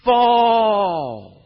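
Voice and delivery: high, long full-force shout of command. Acted. The Lord commands the walls, booming shout. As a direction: shout it as God felling the walls. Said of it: "It is a voice that is shouting".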